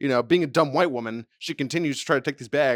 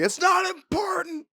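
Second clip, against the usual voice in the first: much higher, slow squeaky line; mock her in a high squeak; slower than usual. Mocking the woman about the chips, high squeak. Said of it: "It's like".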